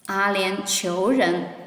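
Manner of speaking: slowed down for the class; slow teacher demo; slow model reading. Shown as a demonstration. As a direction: stretch each syllable out. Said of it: "Please try to read with me".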